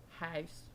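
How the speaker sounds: "house" with the local OU vowel; "house" as a sample of the accent; accent vowel demo. Shown as a demonstration. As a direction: show off the regional vowel in "house". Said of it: "O W's".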